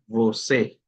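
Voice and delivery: você closing on a full E vowel; final E as E. Shown as a demonstration. Teacher summing up the accent rule, você with final E sound. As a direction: give você its accented E at the end. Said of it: "por ese motivo es que se pronuncia".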